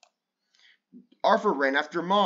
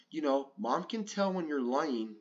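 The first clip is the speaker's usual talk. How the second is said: whisper; 2 semitones lower, 6 dB quieter than usual. Acted. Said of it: "whispered D W".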